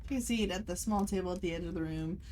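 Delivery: calm scene-setting narration; game master narration. A narrator's reading. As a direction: paint the dim tea room for the players.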